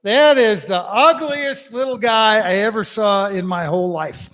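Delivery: mock insult called across a bar; calling over. Englishman insults leprechaun across bar, mock calling over. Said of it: "he just calls over".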